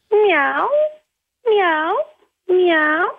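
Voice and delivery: high, drawn-out pretend meows; cat meow. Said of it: "så hvis jeg mjauer, så er det helt greit".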